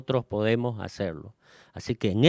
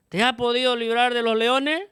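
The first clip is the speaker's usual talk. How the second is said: sad calling out; 10 semitones higher, 4 dB louder than usual. A narrator's reading. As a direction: call down into the pit in grief. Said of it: "llamó a voces a Daniel con voz triste".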